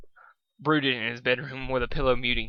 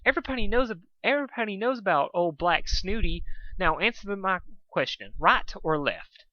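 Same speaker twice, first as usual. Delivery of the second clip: high voice; 6 semitones higher than usual. Acted. Pinkie high.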